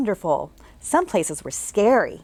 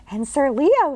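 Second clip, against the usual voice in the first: put-on much higher girl's voice; bright little girl; 5 semitones higher than usual. Jane greeting the ghost she can see, as a bright girl. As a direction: chirp it like a curious girl. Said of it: "said Jane".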